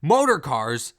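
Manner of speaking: suddenly hooked on the idea; excited. Retold or imitated. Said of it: "He's like".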